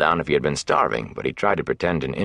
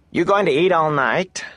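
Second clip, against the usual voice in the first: much higher, louder bark; 13 semitones higher, 4 dB louder than usual. Acted. Innkeeper barks at the boys eating, loud. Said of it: "Hake barked".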